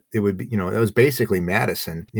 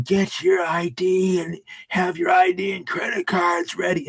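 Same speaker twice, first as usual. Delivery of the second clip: higher, slow mock barking of orders; imitating a pushy hotel clerk; retold clerk yelling; 7 semitones higher than usual. Guest mimics the clerk rushing the check-in line, mock bossy.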